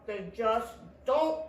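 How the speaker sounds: lightly groaned answer; a touch of a weary groan. A narrator's reading. Tortoise answering Squirrel, mildly groaning. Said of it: "groaned Tortoise".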